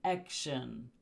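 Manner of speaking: "Action" stressed on the first syllable, AK-shun; stress before shin. Shown as a demonstration. Teacher shows English emphasis, stress on first syllable of "Action". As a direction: hit AK in "Action", let "shun" drop. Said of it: "the syllable before it".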